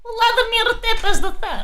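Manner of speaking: slow, grand title call; dramatic name announcement. Acted.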